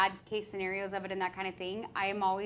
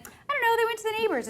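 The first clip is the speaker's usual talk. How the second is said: mock careless shrug; 12 semitones higher, 4 dB louder, faster than usual. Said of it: "not being like".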